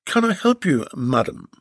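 a courteous workman at the door; plumber's voice. Acted.

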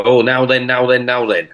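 lightly voiced "now then" catchphrase; a hint of a pompous old comic; dim pompous cartoon cop. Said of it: "was gonna go on and go".

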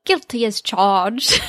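slow, hammed-up British accent; bad British accent. Shown as a demonstration. Retrying Bob's line for the co-host, worse British accent. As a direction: attempt British, badly, on the edge of laughing. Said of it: "do a better British accent".

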